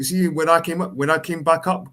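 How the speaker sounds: ordinary talk, nothing marked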